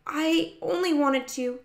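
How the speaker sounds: high voice trying to explain; pleading child. A narrator's reading. Child tries to explain, cut off.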